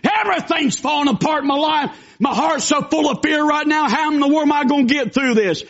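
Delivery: preacher mimicking a panicked believer, anxious cry; mock panic. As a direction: act out the frightened believer, half-hammed. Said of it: "When you're going".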